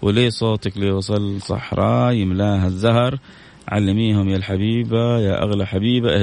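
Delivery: reciting a love poem to a mother, unhurried; tender poem recitation; reading a poem. Acted. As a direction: read it out like a heartfelt verse. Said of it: "هي مرسلتها إلى والدتها".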